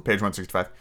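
ordinary delivery, nothing marked

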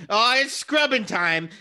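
drawled southern voice; folksy southern drawl; southern accent. Acted. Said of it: "in a southern accent".

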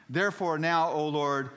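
high, loud pulpit reading; forceful but not yet at full shout; dramatic plea. Acted. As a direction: call out to the Lord. First take of Jonah's prayer.

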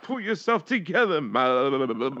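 high mock-lecturing voice with a stretched "man"; imitating the stern lecturer. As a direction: parrot the scolding, stretching "man". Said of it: "the word man ... seven and a half syllables".

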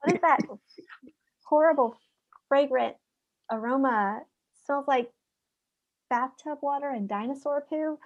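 high, hammed-up disgust at the smell; mock disgusted. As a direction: play up a horrified sniff. Acted reaction to the smell.

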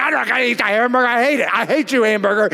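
put-on hurried, whiny kid tantrum; mock crying protest. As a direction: imitate a child's tearful refusal. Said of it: "And I'm crying".

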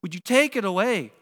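calling out to God. Retold or imitated. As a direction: cry out a prayer under strain. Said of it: "you call out to God".

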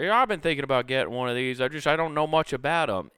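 curious buyer. Retold or imitated. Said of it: "he start".

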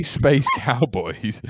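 very slow, lightly Scottish delivery; Scottish-sounding accent. Shown as a demonstration. Proving to the co-host it sounds Scottish, Scottish accent. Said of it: "you sound Scottish".

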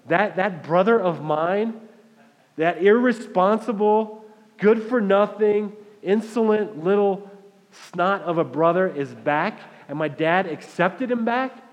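slow, outraged, spitting the insults; indignant disbelief. Retold or imitated. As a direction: drag out each insult in disbelief. Older brother hears of the feast.

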